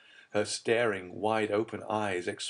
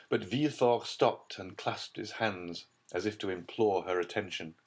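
usual speaking voice

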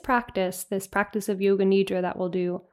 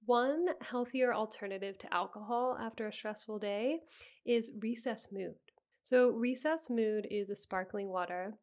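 softer, even podcast ad read; sponsor ad read; 14 dB quieter than usual. Real, not acted. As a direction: read the sponsor copy smoothly and quietly. Reads a sponsor ad.

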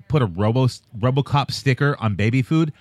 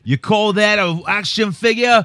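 mock Australian; 4 semitones higher than usual. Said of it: "the most Australian dudes ever".

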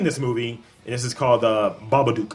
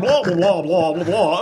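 louder, higher, hammed-up pirate gibberish; mock pirate babble; 6 semitones higher, 4 dB louder, slower than usual. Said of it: "I was like".

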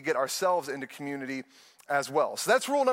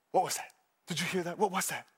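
scared wife; 4 dB quieter, faster than usual. Retold or imitated.

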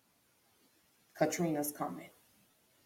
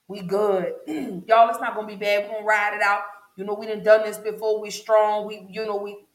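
higher, louder, swaggering reassurance; cocky bravado; 4 semitones higher, 3 dB louder than usual. Retold or imitated. Neighbours days before Katrina, boasting they'll ride it out. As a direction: brush it off like you've ridden out storms before.

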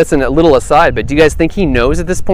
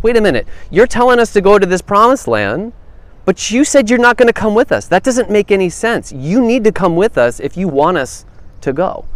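lightly voiced Moses, pitched higher in protest; Moses pleading with God; 6 semitones higher than usual. Moses protesting to God about the promised land, mildly raised and pleading. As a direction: argue with God as if it makes no sense. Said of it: "he says".

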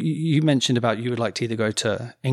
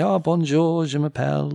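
schoolbook French; 4 semitones higher than usual. Retold or imitated. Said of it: "that kind of stuff".

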